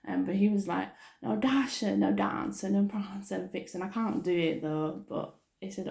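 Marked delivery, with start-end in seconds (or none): 1.2-3.8 happy imitation. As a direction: imitate someone calling the names happily. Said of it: "Tom actually said it really sort of happy".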